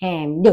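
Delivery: हेम्ड with a short e sound, clearly spelled out; German pronunciation. Shown as a demonstration. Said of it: "तो इसलिए हम इसको बोलेंगे". (German उच्चारण में हेम्ड)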